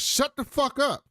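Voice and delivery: Molly silencing George, half acted; mock angry snap. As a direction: cut him off sharply. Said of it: "She goes".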